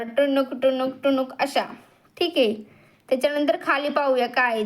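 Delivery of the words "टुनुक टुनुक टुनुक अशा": hopping sound. Shown as a demonstration. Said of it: "बेडकासारखा उड्या मारता आल्या तर".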